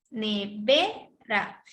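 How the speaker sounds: Ne-VE-ra in separate stretched syllables; stress on second syllable. Shown as a demonstration. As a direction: stretch Nevera, climbing sharply on VE. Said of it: "tiene solo una sílaba tónica".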